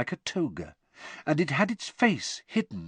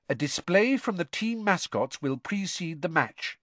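higher-pitched, measured reading; reading aloud; 7 semitones higher than usual. A narrator's reading. Hermione reads the programme to the others, reading aloud. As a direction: recite it from the programme. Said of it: "she read aloud".

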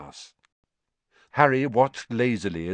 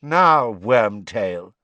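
loud, raised, cold address; 8 dB louder, much slower than usual. A narrator's reading. Master turns on his servant, cold and loud. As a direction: summon the servant with cold command. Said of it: "said the cold voice".

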